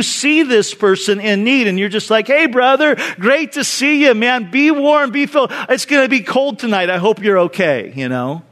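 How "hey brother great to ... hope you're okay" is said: high, cheery and hollow, brushing him off; a hammed-up chummy send-off; breezy fake friendliness. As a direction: sound glad to see him but not helping. Mock glib blessing to needy brother.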